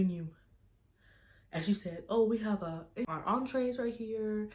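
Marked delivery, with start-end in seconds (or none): 2.1-4.5 imitated high server voice; nice waitress. Waitress showing guests the entrees, nice and high-pitched. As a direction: politely present it, pitched up. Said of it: "she was being so nice".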